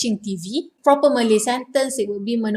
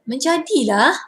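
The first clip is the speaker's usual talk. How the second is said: raised impressed Menjadilah; impressed praise; 3 semitones higher than usual. Shown as a demonstration. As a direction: praise a good result. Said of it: "people will say to you something like that".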